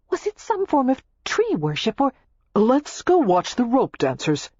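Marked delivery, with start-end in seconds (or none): 2.5-4.5 eager, slowed, drawn-out invitation; suddenly keen to steer her away; sudden enthusiasm. A narrator's reading. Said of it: "he said with sudden enthusiasm".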